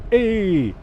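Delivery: sharp, loud, high "Hey!"; sudden shout. Real, not acted. Gamer shouting "Hey!" at a car cutting in, loudly. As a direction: bark it out suddenly at the screen.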